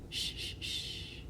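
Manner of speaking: whispered shh; shushing. Acted. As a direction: hush them softly. Hushing before door.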